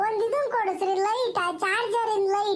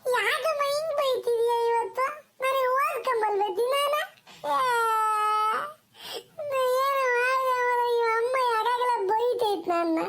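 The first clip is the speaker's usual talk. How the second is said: tearful protest. Acted. Scolded boy asks his mother why, tearful protest. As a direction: play a wronged, crying child. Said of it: "ಯಾಕಪ್ಪ ಅಳ್ತಿದ್ಯಾ".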